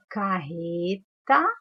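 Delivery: carreta stretched slowly with a rising end; slow teacher reading. Shown as a demonstration. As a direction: read carreta slowly as the path goes on. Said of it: "uma outra palavra que tem dígrafo". (carreta dita devagar, subindo no fim)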